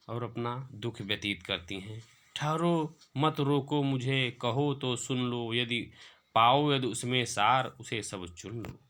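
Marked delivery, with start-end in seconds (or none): 2.3-8.8 slow, measured verse reading; poem recitation. Acted. Teacher repeating Kaikeyi's plea for students, measured poetic recitation. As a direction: recite the verse slowly, dropping away at the close.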